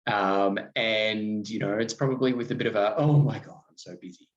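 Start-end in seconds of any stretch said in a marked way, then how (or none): 3.0-4.3 smug busy tone. Retold or imitated. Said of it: "that tone is like".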